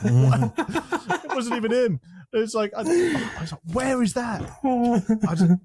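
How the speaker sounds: high laughing voice; laughing through it. Real, not acted. Still laughing at clip.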